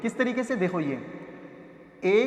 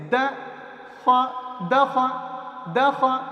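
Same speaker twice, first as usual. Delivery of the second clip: blending syllables; 3 semitones higher, much slower than usual. Shown as a demonstration. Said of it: "پھر دونوں کو جوڑیں گے آپس میں".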